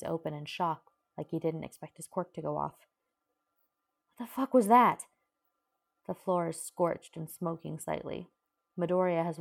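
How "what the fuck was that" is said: a loud, high, angry yell; furious shout. A narrator's reading. Uraraka yelling at Bakugo after the flame, furious. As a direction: yell at him in fury.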